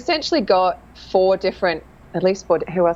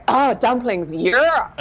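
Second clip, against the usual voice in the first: higher-pitched mock delight; delighted diner; 4 semitones higher, much slower than usual. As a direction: play up joy at the next dish. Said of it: "the next course comes around".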